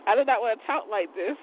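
playful, stilted full-word delivery; lightly put-on careful speech; put-on way of talking. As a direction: talk in a mock-proper way, amused by it.

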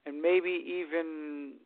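choppy, cutting out call audio; bad connection, words dropping out; radio breaking up. Real, not acted. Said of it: "you're breaking up pretty bad".

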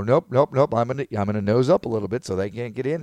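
loud, rapid-fire mock nopes; stubborn refusal. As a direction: refuse like a driver guarding the lane. Acting a stubborn driver blocking others.

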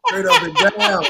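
high laugh into words. Real, not acted. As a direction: laugh while insisting. Laughing at his own answer.

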